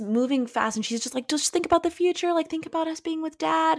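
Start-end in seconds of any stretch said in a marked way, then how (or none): 1.3-3.8 high-pitched imitation of a coaxing mother; sad, cute pleading. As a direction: gently urge a child, in retelling. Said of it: "so sad and so cute".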